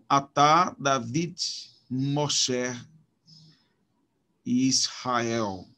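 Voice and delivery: "Atá, David, Moshe, Israel" each landing on the last syllable; measured demo of a-TÁ, da-VID, mo-SHE, isra-EL; stress on final syllable. Shown as a demonstration. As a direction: space out the words, leaning on each ending. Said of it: "na última sílaba".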